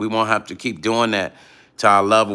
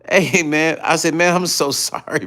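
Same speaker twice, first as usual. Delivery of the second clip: higher, laugh breaking into apology; trying not to laugh; 6 semitones higher than usual. Retold or imitated. Apologizing to Jackie by phone, stifled laugh. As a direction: apologize while stifling the giggles. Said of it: "I was trying not to laugh".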